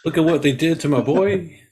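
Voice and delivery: lightly voiced grieving mob boss; a touch of movie don lament; Godfather. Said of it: "have Daniel do The Godfather".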